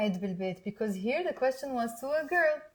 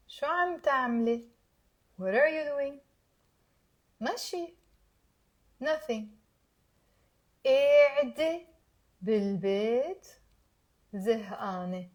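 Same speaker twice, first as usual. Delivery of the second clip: slowly. Shown as a demonstration. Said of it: "Let's say it slowly".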